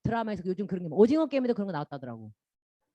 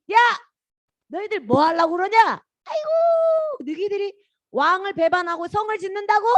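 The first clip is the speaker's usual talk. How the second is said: mocking; 9 semitones higher, 5 dB louder than usual. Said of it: "막 비웃고".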